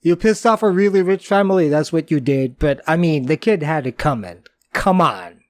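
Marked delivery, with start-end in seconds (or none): 0.0-1.7 mock horrified shout. Retelling a horrified movie reaction.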